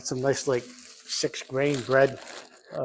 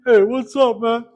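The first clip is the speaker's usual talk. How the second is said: higher, louder breezy hey to a viewer; casual greeting; 8 semitones higher, 7 dB louder than usual. Retold or imitated. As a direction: toss off a friendly greeting to a fan. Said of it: "sit down at the computer and go".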